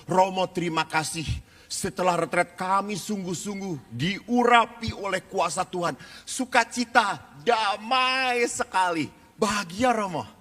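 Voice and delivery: gushing joy. Retold or imitated. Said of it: "mereka bersuka cita".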